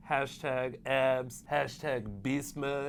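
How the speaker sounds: slow, drawn-out hashtag read; stretched-out caption voice; Mohira impression. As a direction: voice the hashtags like a mock L.A. bro. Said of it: "I'm gonna start voicing all of his captions".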